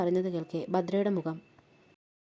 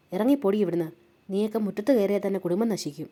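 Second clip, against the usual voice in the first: louder, harsh order to get out; angry dismissal; 3 dB louder than usual. Acted. Woman chasing Bhadra from her yard, angry and loud. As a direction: throw her off the doorstep.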